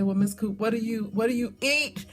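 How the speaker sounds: mock incredulous viewer, rising to a loud squeak at the end; imitating a viewer's question. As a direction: play the baffled viewer demanding the butter. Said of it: "And you probably say".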